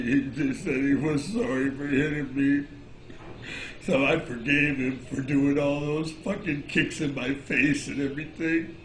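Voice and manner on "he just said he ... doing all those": laughing. Real, not acted. Laughs while recalling apology.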